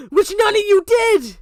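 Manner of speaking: furious shout. Real, not acted. Angry rant at chat.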